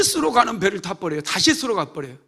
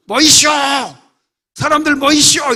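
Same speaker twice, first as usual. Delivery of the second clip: loud, much higher shout; shouted call; 9 semitones higher, 11 dB louder than usual. Shown as a demonstration. Jonah crying out to the city, loud and high. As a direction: bellow it like a street crier. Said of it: "이렇게 안 해요".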